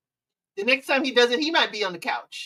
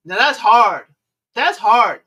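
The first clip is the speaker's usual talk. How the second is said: much louder, punchy; emphatic exclaim; 9 dB louder, slower than usual. Real, not acted. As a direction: hit it hard like a verdict. Emphatic reaction to story.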